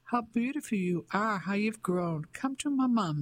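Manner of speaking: put-on high, doting calls to a little girl; returning mother, calling out high and gushing. A narrator's reading. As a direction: pour out motherly delight, voice lifted high. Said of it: "she called".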